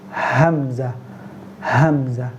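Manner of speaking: hamza with a sharp glottal stop; hamza demo. Shown as a demonstration. Teacher drilling the hamza letter slowly. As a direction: catch the throat on hamza. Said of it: "And then hamza".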